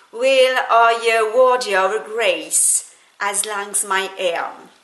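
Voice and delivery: loud, slow Scots declamation of a poem; amateur Scottish accent. Shown as a demonstration. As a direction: recite Burns grandly in a put-on Scottish accent. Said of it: "je n'ai pas du tout l'accent, euh, écossais, mais bon, ça m'amuse tellement de le faire". (accent écossais imité, déclamation forte et lente)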